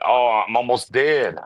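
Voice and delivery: slow hammed-up groan of a dying man; mock dying. Reviewer mocking the black hole rescue, as a hammed-up dying man. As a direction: play it like a melodramatic death.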